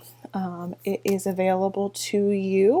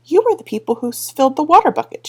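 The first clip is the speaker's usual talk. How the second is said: accusing Tiffany; 7 semitones higher, 7 dB louder, faster than usual. Acted. Tiffany confronts the Wee Free Men.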